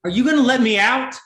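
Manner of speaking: loud, high and fast; desperate shout. Acted. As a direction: yell it after him in a panic. Prisoner rattles his cage.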